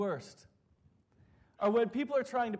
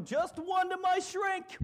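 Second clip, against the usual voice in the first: slow, higher, through a laugh; laughing punchline; 12 semitones higher, slower than usual. Retold or imitated. Coworker jokes back at the manager, laughing. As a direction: drag it out, cracking up. Deadpan joke answer.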